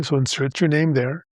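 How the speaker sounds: ordinary talk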